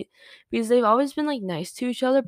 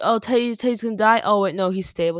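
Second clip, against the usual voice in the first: imitating panicked viewers; 7 dB louder than usual. Podcaster imitating TV viewers fearing for Teddy, mock panic. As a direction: play a fan gasping over Teddy. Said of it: "everyone watching the T V show was like".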